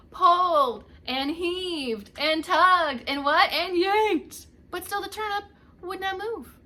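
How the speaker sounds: slow and loud, heaving; straining effort. A narrator's reading. Both old folks tugging together, loud strained heave. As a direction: pull the words out with effort.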